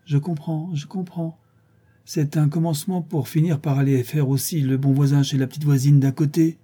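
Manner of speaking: portier malin, plus aigu, tout fier de deviner; un clin d'œil dans la voix, sûr de son fait; fier et malicieux. Acted. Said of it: "d'un air fier et malicieux". (le portier devine les intentions de son locataire, air fier et malicieux)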